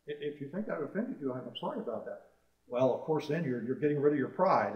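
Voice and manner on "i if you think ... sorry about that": soft, humble acted apology; apologetic. Preacher modelling a reply to someone who yelled, softly apologetic. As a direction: offer a quiet, conciliatory sorry.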